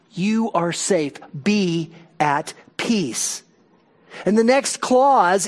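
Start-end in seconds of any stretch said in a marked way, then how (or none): 0.1-3.4 gentle reassurance. Acted. Pastor voicing reassurance gently.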